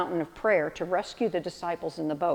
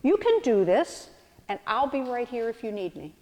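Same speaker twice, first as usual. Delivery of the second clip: gentle reassuring parent; 4 semitones higher than usual. Retold or imitated. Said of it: "like a parent saying to the new bike rider".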